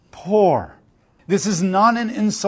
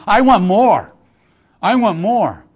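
louder, grasping cry for more; a spoiled rich wife insisting on more; greedy demanding wife; 4 semitones higher, 6 dB louder, slower than usual. Retold or imitated. Rich wife pressing her husband, greedy and loud.

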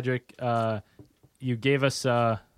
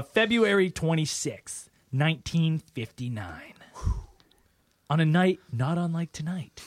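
spooky storyteller; 3 semitones higher than usual. Shown as a demonstration. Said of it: "Story time".

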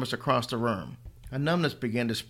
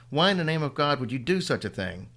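shouting; 4 semitones higher, 3 dB louder than usual. Acted.

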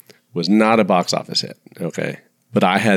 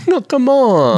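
laughing protest; 14 semitones higher, 5 dB louder, slower than usual. Real, not acted.

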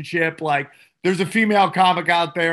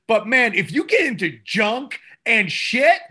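usual speaking voice

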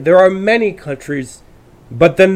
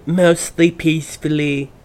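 a hint of slow newsreader; mock newscaster. Speaker mocking how the news would put it, mock newscaster. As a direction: lightly imitate the news, drawn out. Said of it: "like the news would say".

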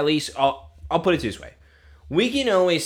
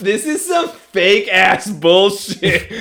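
retold angry rant; 2 semitones higher, 6 dB louder than usual. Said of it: "I was so mad".

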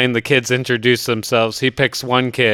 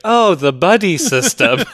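realizing tone; 6 semitones higher, 4 dB louder than usual. Retold or imitated. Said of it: "she's like".

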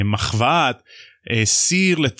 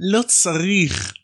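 slow emphatic; 6 semitones higher, much slower than usual. Retold or imitated. Mocking Hagrid's fat remark.

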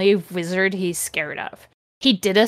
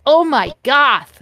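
higher, slow mock-shocked exclamation; mock gasp; 4 semitones higher, 4 dB louder than usual. Slugborn reacts as Voldemort flies away, mock gasp. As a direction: draw it out in hammed-up shock. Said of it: "Slugborn gasped".

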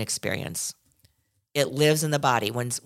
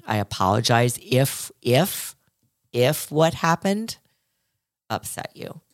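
slower, dragged-out insincere apology; slow hollow apology; slower than usual. Retold or imitated. Host mocking a non-apology, slow and hollow. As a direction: draw it out as a half-hearted sorry. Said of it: "That's not taking responsibility".

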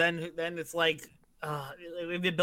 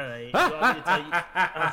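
put-on louder, cackling sinister old villain voice; Emperor Palpatine; 4 dB louder than usual. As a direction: rasp it out like an evil emperor. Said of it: "That sounds like Emperor Palpatine".

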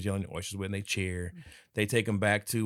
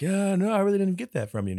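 mock dismissive; 10 semitones higher, 4 dB louder than usual. Retold dismissive reply.

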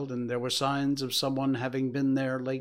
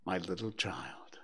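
breaking down; 5 semitones lower, 9 dB quieter than usual. Acted. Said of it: "He broke down all at once".

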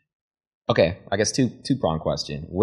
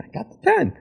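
pitched way up, celebrating; high hype shout. Pretend. Hyping a quotable line.

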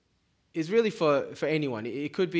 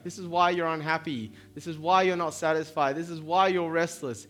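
pleading divine voice, louder, rising on each why; voicing God pleading; 3 semitones higher, 3 dB louder than usual. Preacher voicing God asking the drifting why, pleading and louder. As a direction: plead like God calling a wanderer home. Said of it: "He's like".

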